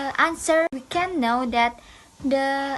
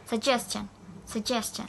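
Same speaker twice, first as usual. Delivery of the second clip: "Suggestion" said sug-GES-tion; stress on middle syllable; 6 dB quieter than usual. Shown as a demonstration. Teacher modelling the related word, stressed "sugGEStion". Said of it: "also same with the".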